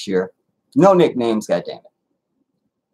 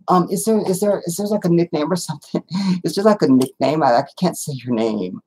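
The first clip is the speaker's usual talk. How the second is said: lightly voiced hesitant therapist, higher at first; 4 semitones higher than usual. Therapist asking the client for a nickname, hesitant mimicry. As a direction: imitate a stumbling, higher-pitched woman. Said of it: "she was like".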